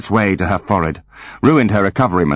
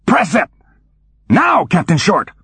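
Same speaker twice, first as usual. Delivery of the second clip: commanding order; 10 semitones higher than usual. Acted. Root ordering.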